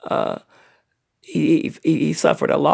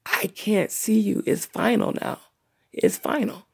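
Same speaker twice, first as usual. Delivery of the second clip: soft, slow, hushed farewell; a hint of grief, slow and soft; grieving inner voice; 4 semitones higher, 5 dB quieter, slower than usual. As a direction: say it quietly to a closed casket.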